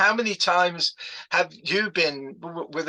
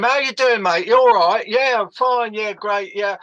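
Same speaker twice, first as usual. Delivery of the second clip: loud, higher East London banter; East London accent; 4 semitones higher, 5 dB louder than usual. Acted. Greeting brothers from Essex, East London accent. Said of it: "if you heard me with my brothers".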